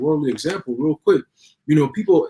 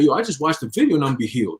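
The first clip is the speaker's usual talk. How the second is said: mock hyped believer; faster than usual. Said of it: "people gonna be like".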